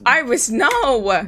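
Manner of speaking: slow drawn out cry; calling out. Real, not acted. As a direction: plead loudly with the bat. Bat wrecking the room.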